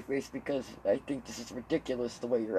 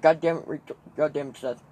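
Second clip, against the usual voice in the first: exasperated dad; 3 semitones higher, 7 dB louder than usual. Retold or imitated. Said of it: "He gets so fucking mad at me".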